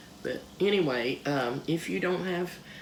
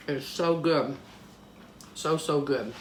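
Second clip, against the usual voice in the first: talking while crunching; crunching chips. Real, not acted. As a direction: mouth full of crunchy biscuit. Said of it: "Can you hear me crunching?".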